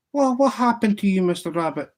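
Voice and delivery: the barman gasps at the ghost; startled barman. Acted.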